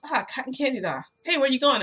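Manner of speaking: high, loud hail; calling out. Acted. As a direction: call after someone running off. Hawks calls after fleeing narrator.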